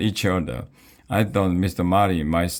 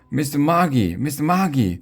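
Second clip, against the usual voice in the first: high, urgent calling out; raised, high-pitched hail; mom's shout; 9 semitones higher than usual. A narrator's reading. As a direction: shout the name to stop someone leaving. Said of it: "she shouted".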